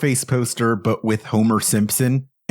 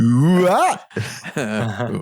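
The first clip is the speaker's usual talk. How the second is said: reverse Wahoo. Retold or imitated. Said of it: "Wahoo in reverse".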